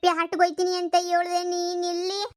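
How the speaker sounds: panicked stutter, repeating syllables; husband caught by his wife, stuttering; caught stammering. Acted. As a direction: trip over every word in shock.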